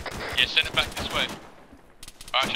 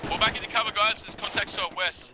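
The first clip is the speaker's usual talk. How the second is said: alarm shout; 8 semitones higher than usual. Real, not acted. Ordering retreat under fire.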